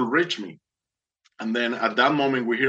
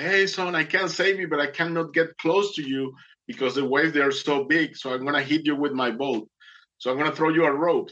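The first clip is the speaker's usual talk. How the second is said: raised-pitch imitation of someone calling out; mock yell; 3 semitones higher than usual. Boatman calling to a stranded swimmer, mock yell. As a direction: retell a yell without much volume. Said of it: "started yelling at me like".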